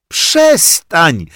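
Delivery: high, loud laughing protest; child's shout. Acted. Grześ shouts at Rozalka from the floor, high and loud. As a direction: shout "stop" while rolling about. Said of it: "krzyknął tarzający się wśród zabawek Grześ".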